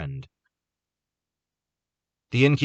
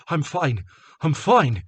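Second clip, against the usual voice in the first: insisting; 8 semitones higher, 5 dB louder, slower than usual. A narrator's reading. Wounded Carter insisting.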